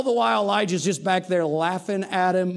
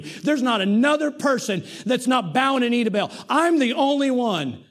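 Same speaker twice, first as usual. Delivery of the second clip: self-pitying Elijah; 5 semitones higher than usual. Acted. Elijah in his pity party complaining to God, higher and aggrieved. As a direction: lay out your grievance, hurt.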